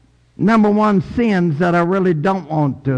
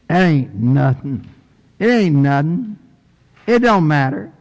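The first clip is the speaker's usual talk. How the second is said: Kentucky dialect. Shown as a demonstration. Preacher putting it his own way for listeners, Kentucky dialect. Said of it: "my Kentucky dialect".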